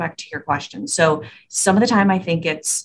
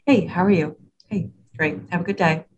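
elevator small talk. Shown as a demonstration. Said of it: "elevator tone of voice".

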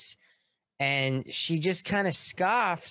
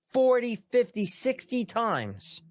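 high building count, slowing on sixty times; each number stressed, slowing at the end; emphatic count; 10 semitones higher, slower than usual. Real, not acted. Ranting about repeat offenders.

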